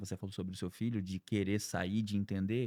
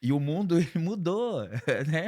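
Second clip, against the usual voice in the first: laughing through the words, louder; 6 semitones higher, 6 dB louder than usual. Real, not acted. Telling the host how times changed, laughing. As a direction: chuckle as you say it. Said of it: "laughing while speaking".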